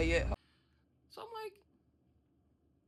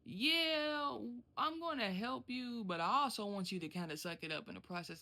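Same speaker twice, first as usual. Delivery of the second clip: imitating the FM's tone; 7 dB quieter than usual. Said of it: "my F M kinda has this tone where".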